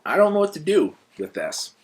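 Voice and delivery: high, loud bewildered outburst; mock dismay. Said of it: "And you're like".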